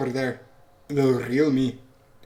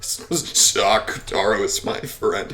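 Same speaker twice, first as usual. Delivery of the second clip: strained protest in a put-on voice; protesting child witch; 4 dB louder than usual. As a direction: insist stubbornly, drawing out the words.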